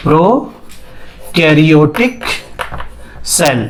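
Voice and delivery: prokaryotic drawn out in parts, low; slow dictation. Real, not acted. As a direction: dictate it word by word, dropping low on cell. Teacher spells out term while writing. (धीमे, रुक-रुक कर लिखवाते हुए)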